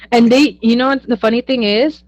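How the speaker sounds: laughing through the words. Real, not acted. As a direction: burst out laughing as you start. Bursts out laughing mid-story.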